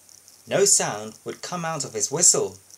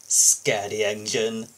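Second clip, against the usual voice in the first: sneering; 4 semitones lower than usual. Acted. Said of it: "Spencer sneered".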